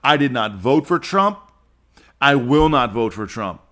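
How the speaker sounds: deliberate, unambiguous declaration; very plain statement. Real, not acted. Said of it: "say this very plainly".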